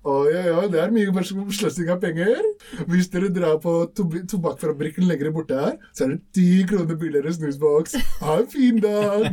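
chirpy shop cashier with a mock Asian accent. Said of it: "asiater som jobber".

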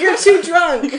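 guard line broken by laughter, slow; laughing guard. Acted. Guard laughing at the drunk he hauls off. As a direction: try to stay in character while cracking up.

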